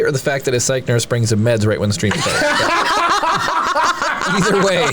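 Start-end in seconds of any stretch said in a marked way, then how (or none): 2.5-4.2 high laugh. Real, not acted. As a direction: crack up high. Laughing at chat joke.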